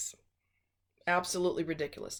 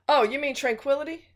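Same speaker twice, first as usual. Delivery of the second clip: mock old man; 6 semitones higher, 5 dB louder than usual. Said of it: "He goes like this".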